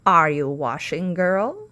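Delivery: loud call through a door; witch calling. Acted. Witch calling to Sasha through the door, loud.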